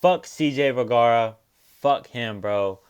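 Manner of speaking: fed-up venting; loud cursing. Real, not acted. Cursing a fighter who lost.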